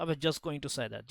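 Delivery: soft, slow "I was just going to say that"; quiet model line. Shown as a demonstration. Teacher giving students a phrase to memorise, softly. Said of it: "ये याद कर लो दोस्त".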